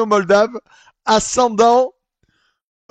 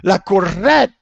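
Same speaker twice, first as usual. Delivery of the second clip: mock Italian accent; 3 semitones higher, 6 dB louder, slower than usual. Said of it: "son accent n'est pas du tout naturel".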